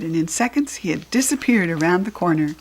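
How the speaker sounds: plain reading voice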